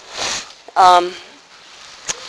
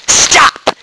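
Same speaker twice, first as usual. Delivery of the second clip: whispered Stop; hushed stop; 3 semitones higher than usual. Acted. Voicing Therese to a discouraged soul, hushed whisper. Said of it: "Therese says".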